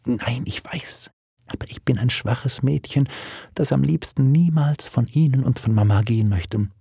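lightly voiced timid girl; a hint of a weak, worried daughter; shy young daughter, anxious. Daughter confessing fear of leaving her parents, timid.

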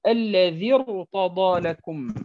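الذي ارتضى لكم with the ra of ارتضى heavy, slow; ارتضى drawn out with a full heavy ra; tajweed reading. Shown as a demonstration. Teacher demonstrates heavy ra, slowly. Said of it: "مثال آخر".

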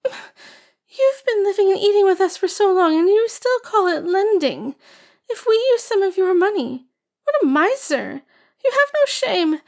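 put-on high scornful girl's scolding; spiteful girl. A narrator's reading. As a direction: spit it out with contempt. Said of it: "Ah Ching spat".

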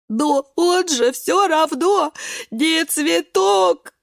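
high, loud, very slow sobbing cry; sobbing beet. Acted. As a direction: wail it through tears. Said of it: "рыдает свёкла". (свёкла рыдает)

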